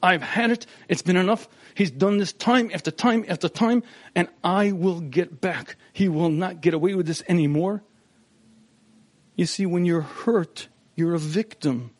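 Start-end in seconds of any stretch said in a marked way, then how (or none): 0.0-7.8 an acted fit of angry resentment; angry spouse. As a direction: vow revenge like a spouse who's had enough. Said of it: "gets translated into anger".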